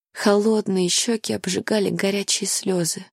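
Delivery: ordinary talk, nothing marked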